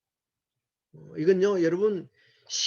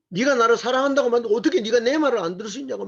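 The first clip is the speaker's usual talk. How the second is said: higher, peeved complaint in an imitating voice; raised, offended whine; mock indignant outburst; 6 semitones higher, faster than usual. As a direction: act out the sulky self who got ignored. Mimics a frustrated self-centred person.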